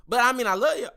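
hiccuping through the words; with hiccups. Real, not acted. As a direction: talk while hiccuping. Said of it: "Excuse me, I got hiccups".

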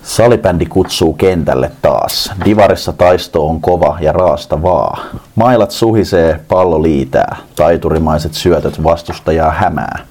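lightly put-on reciting voice, read with mild ceremony; a hint of a solemn poet reading verse; mock poem recital. Host reads a listener's floorball poem aloud, mock recital. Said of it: "olisiko niinku Joonasen Ehromaisella äänellä yritetään".

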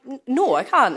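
exasperated retold denial; retold flat refusal. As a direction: stammer into an emphatic no. Retold refusal, asked every time.

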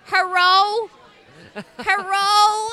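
imitating the cat's human-like meow; cat meowing hello. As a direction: call out like a cat meowing a word. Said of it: "he goes".

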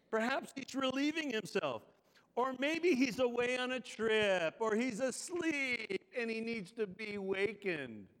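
lifted, scoffing taunt; needling mock speculation. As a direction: jeer at their absent god. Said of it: "Elijah began mocking them".

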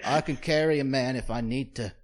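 lightly put-on English accent; a hint of an earnest English applicant; mock British accent. Job applicant boasting to the agency, lightly mocked British accent.

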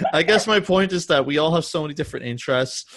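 laughing it off; still laughing. Real, not acted. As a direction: talk through fading laughter. Recovers while still laughing.

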